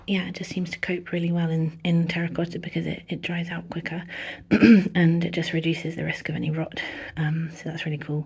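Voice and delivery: slightly breathless talk; short of breath from a cold. Real, not acted. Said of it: "sorry I'm a bit out of breath".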